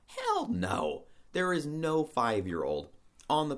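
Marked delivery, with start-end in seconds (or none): 0.1-1.0 emphatic hell no. Real, not acted. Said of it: "repeated, much higher".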